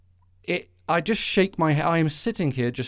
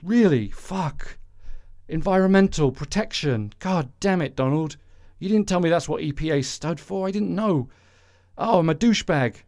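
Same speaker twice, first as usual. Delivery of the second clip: mock dismay, a bit higher, swearing under the breath; dismayed Pruitt voice; 4 semitones higher than usual. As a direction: play the dope who just found out. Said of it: "acting out thing here between Donald Trump and Scott Pruitt".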